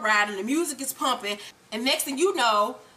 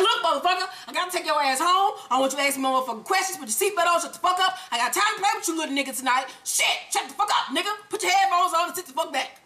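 higher, rapid exasperated scolding; mock angry ordering; 4 semitones higher, faster than usual. Ghost ordering Tariq home, higher-pitched exasperated scolding. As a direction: imitate a fed-up man laying down orders.

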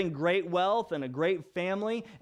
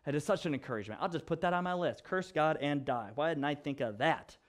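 dry, low-key mock appreciation; mock being encouraged, deadpan; sarcastic; 3 semitones lower, 4 dB quieter than usual. Preacher mocking the wife's encouragement, sarcastic. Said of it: "I mean that sarcastically".

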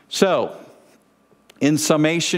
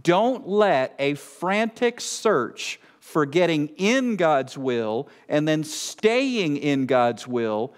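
slower reading, leaning on IN and STAYING; slow, emphatic repeat; slower than usual. Real, not acted. Preacher rereading the warning so it sinks in, slow, emphatic repeat. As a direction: reread it deliberately, stressing "in" and "staying". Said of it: "Let me read it again as I said I would".

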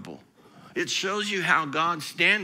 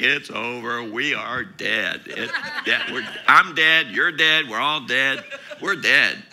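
hammed-up panic, louder, half laughing; mock panic; 5 semitones lower, 8 dB louder than usual. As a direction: play the disciples losing it, loud and mocking. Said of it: "and they're like".

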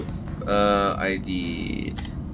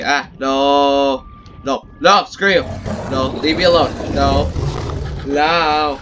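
panicked yelling; 4 semitones higher, 5 dB louder than usual. Real, not acted. Fending off a creature following him.

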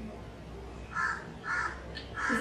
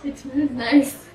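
sarcastic; slower than usual. Pretend. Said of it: "fake praise of foul drink".

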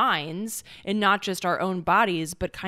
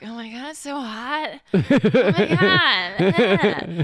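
mock whine, higher pitched; whiny complaint; 3 semitones higher, 7 dB louder, slower than usual. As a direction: whine it like an overheated crybaby. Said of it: "I become a whiny little bitch".

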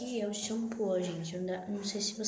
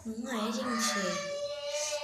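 drawn-out loud call; shout; 3 semitones higher, 4 dB louder, much slower than usual. Real, not acted. Girl calling out over shouting cousins.

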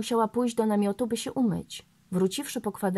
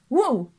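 bass dog woof; 5 semitones higher, 7 dB louder than usual. A narrator's reading. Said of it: "ozwał się na to basem Saba".

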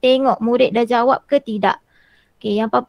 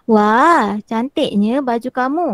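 admiring exclamation; slower than usual. Shown as a demonstration. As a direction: model the exclamation with the right lively tune. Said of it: "rekod intonasi suara, dengan intonasi yang betul".

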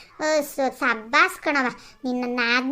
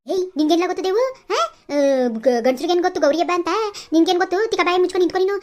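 angry retort; faster than usual. Acted. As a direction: shut him up with force. Wife shouting back at husband. (ಗಂಡನ ಮೇಲೆ ಜೋರಾಗಿ ಸಿಟ್ಟಿನ ಗದರಿಕೆ)

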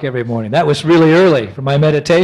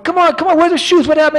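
much higher, urgent questions; frantic urging; 14 semitones higher, 4 dB louder, faster than usual. Retold or imitated. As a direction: hurry her, frantic. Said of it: "I told my former wife".

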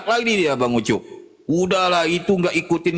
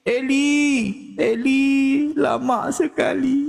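high, drawn-out mock wail; mock crying; 9 semitones higher, slower than usual. Jesus crying out on the cross, mocking tearful wail. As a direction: cry it out in a hammed-up lament. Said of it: "Menangis dia lagi".

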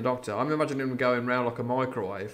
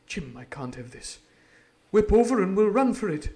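urgent doctor; 8 semitones higher, 9 dB louder than usual. Acted. Doctor urges Jim to flee, suddenly loud. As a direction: hurry him out, urgent. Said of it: "his voice was quite changed".

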